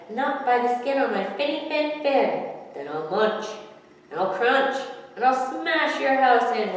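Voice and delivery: the smart fish shouts back at the shark; roared. A narrator's reading. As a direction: roar out the threat. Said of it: "roared the shark".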